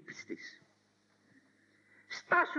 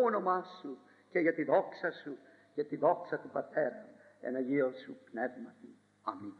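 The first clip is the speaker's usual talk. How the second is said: prayer. Acted. Opening prayer. (ήσυχη προσευχή)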